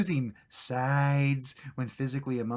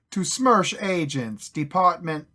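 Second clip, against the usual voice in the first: slow, louder fake Russian accent; hammed-up Russian reading; 4 semitones higher, 9 dB louder, slower than usual. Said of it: "how to do a Russian accent".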